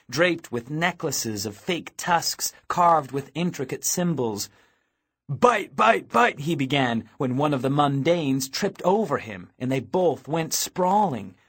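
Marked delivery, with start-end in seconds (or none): 5.3-6.4 raised, higher-pitched chant; game attack call. A narrator's reading. Teenage vamp starting to tag a rival, high call.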